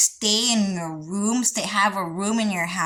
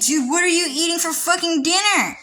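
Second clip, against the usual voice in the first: nosy neighbor voice; 7 semitones higher than usual. Retold or imitated. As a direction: fire off nosy questions like a busybody. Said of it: "a different breed of nosy".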